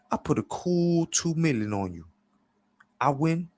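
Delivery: high-pitched wheeler-dealer; high, confident character voice; Clever. A narrator's reading. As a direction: pitch up, pitching a bet to a buddy. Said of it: "Clever tells him".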